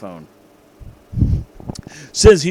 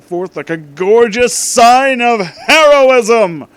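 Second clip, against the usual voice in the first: loud, slow and soaring; grand dramatic; 8 semitones higher, 10 dB louder, slower than usual. A narrator's reading. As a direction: swell it up like an epic. Grand climactic narration.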